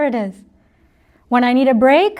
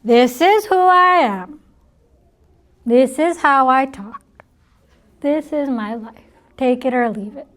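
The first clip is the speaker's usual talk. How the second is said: mock stubbornness. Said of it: "if I'm just gonna sit".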